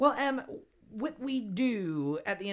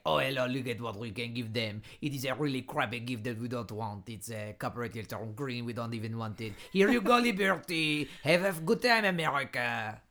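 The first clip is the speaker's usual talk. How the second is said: mock French accent; 4 semitones lower, 3 dB louder than usual. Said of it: "I like your French accent".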